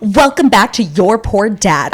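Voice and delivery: slow, deliberate host welcome; slow show intro. Acted. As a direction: announce it like a serious host. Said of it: "I'm taking my job seriously today".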